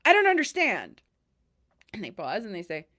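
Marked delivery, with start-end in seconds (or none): 0.0-1.0 raised, higher, louder retort of a pushy caller; hammed-up irritated customer; imitating an angry caller who won't let go; mock aggressive caller. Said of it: "they're still aggressive".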